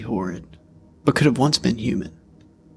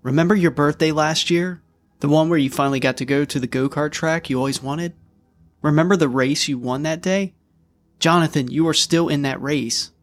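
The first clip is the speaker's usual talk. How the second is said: put-on higher, urgent pleading girl's voice; a sister begging her brother to fight back, pleading higher; pleading little sister; 3 semitones higher than usual. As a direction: reach your lost brother through the monster. Girl pleads with possessed brother.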